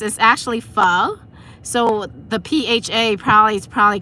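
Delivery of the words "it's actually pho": pho said as fuh, with a rising end; Vietnamese pronunciation. Shown as a demonstration. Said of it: "with the Vietnamese accents".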